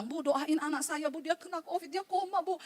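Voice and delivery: slow, soft plea over the phone; pleading mother. Retold or imitated. Worried mother phones the preacher for prayer, pleading. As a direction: gently imitate a worried mother's request.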